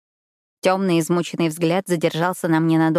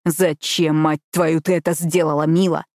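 mild deep growl. Acted. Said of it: "зарычал он глубоким, хриплым голосом".

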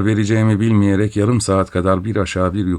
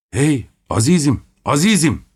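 high, raised call of the name; 7 semitones higher than usual. A narrator's reading. Narrator calling out to Lukyaniç at the door. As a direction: call after him as he shuts the door. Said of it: "diye bağırdım".

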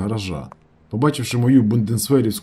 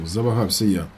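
usual speaking voice

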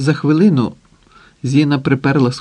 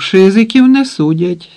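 higher and louder grumble; grumbling retort; 7 semitones higher, 7 dB louder than usual. A narrator's reading. Pot-bellied hostage grumbling to Zina, loud retort. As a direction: growl it out dismissively. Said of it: "буркнув пузатий Потапов".

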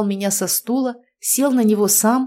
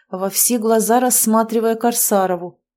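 plain reading voice

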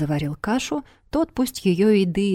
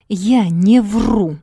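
slow stubborn words through gritted teeth; 6 dB louder, much slower than usual. Acted. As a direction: grind it out through clenched teeth. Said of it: "упрямо процедила она, сжав зубы".

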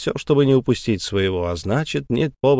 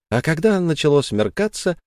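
usual speaking voice

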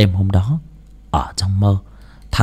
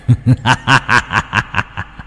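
evil laugh; 2 semitones higher than usual. Acted. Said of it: "cười lên ha ha".

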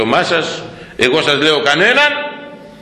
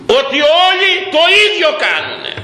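preaching shout; 13 semitones higher than usual. Real, not acted. Preacher denouncing politicians.

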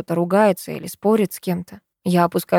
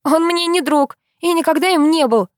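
angry yell; 9 semitones higher than usual. A narrator's reading. Girl yelling at the boy from the stairs, angry shout. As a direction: throw the words down the stairs. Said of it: "слышится её голос".

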